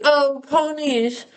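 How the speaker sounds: slow, dreamy gas-addled musing; dreamy example. Retold or imitated. To show what she blurted on gas, slow and dreamy. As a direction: drift through the words slowly. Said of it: "So if I was like".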